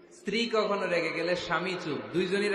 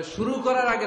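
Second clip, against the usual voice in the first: tag; 7 semitones higher, 6 dB louder than usual. Acted. Husband voiced in joke story.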